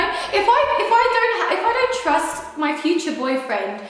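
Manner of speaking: worked-up insistence. Real, not acted. Insisting on trust in relationships.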